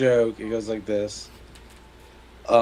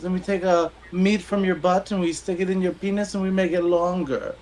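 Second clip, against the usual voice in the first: doctor voice; 8 semitones higher than usual. Acted. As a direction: play the joke's doctor up high and eager. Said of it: "And he goes".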